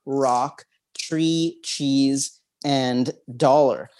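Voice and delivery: one word at a time, spaced out; measured list, often lilting up on each item; word-list recitation. Shown as a demonstration. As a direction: read out a memory list with pauses between items.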